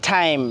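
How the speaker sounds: "টাইম" with T puffed as ঠ; aspirated T. Shown as a demonstration. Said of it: "টি এর উচ্চারণ ঠ".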